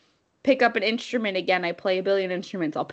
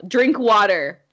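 firm self-command; 7 dB louder, slower than usual. Retold or imitated. Self-command when things go badly.

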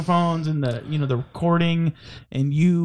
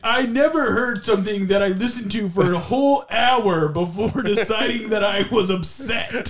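mock aggrieved reviewer; 2 semitones higher than usual. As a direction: play the outraged customer in a raised pitch. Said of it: "He's like, gives our podcast".

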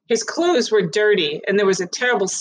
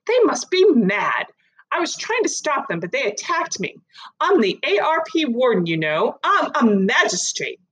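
indignant woman; 5 semitones higher than usual. Acted. Mrs Barron protests her innocence.

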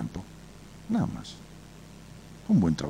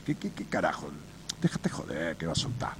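parrot mimicking owner; 6 semitones lower, 9 dB quieter than usual. Parrot repeats owner's words.

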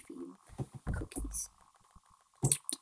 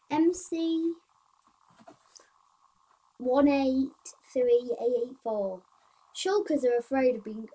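slow read-out, loud then settling; reading aloud; 7 dB louder, slower than usual. Acted. Player reading shulker and boat bugs, reading aloud. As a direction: read the list out slowly, easing off. Reads out bug list.

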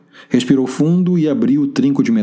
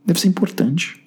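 serious tone. Acted. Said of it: "mudando bruscamente o tom de voz".

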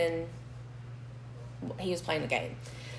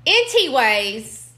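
drawn-out anyways; 2 semitones higher, 5 dB louder, much slower than usual. Real, not acted. Exasperated restart after giggling.

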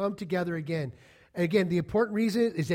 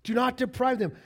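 higher, louder, slow: don't deprive them; emphatic command; 9 semitones higher, 7 dB louder, slower than usual. Real, not acted. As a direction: preach it hard and slow. Preacher hammering the command.

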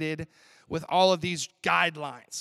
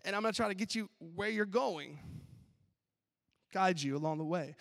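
gentle apologetic road line; 7 semitones higher than usual. Retold or imitated. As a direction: voice the yellow lines as meek and kind. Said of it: "the yellow lines are like".

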